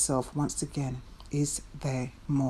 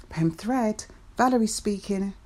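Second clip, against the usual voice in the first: bright, higher phone-answering voice; phone greeting; 5 semitones higher than usual. Retold or imitated.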